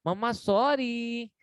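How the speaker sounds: slow, gentle "mamma sorry"; a tender apologetic "mamma sorry"; sweet sorry to mom. Shown as a demonstration. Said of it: "ये tone सही है". (Mummy से धीमे, प्यार से माफ़ी)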